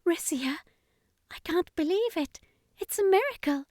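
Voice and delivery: high, tearful mother's voice; a mother weeping with relief. A narrator's reading. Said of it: "as she tearfully embraced the boy".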